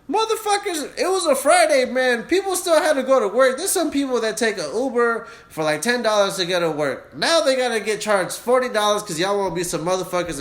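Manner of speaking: indignant rant at Uber for Friday commuters; angry rant. Real, not acted. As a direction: let the outrage spill out. Ranting at Uber again.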